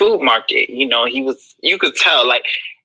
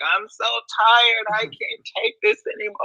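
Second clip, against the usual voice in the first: hammed-up tragic cry, pitched way up; dramatic breakdown wail; 8 semitones higher than usual. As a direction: play it like a melodramatic meltdown. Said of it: "I was giving you Nancy in the crab".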